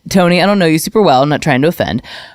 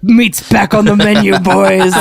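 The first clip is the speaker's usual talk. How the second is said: orc voice. Pretend. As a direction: lightly play a hungry orc. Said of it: "And I'm like".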